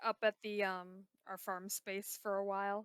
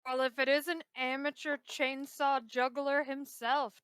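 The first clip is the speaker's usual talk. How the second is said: announcer voice; 4 semitones higher, 6 dB louder, slower than usual. Pretend. Mock grand introduction of a friend.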